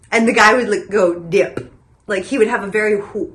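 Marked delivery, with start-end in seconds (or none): 1.2-1.7 "dip" drawn out with a very wet P; weird "dip". Retold or imitated. Imitating the commercial guy, oddly wet P on "dip". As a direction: pop the final P of "dip" wetly. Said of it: "It was, like, really weird sounding".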